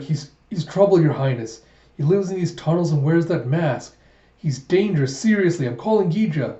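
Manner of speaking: put-on frightened boy hurrying to warn her off; alarmed warning. Boy urgently warns the princess about the masked man, high and alarmed.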